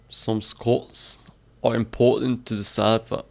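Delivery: attempted Scottish accent on a practice sentence; tentative Scottish accent reading; practising Scottish accent. Shown as a demonstration. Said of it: "How to do a Scottish accent".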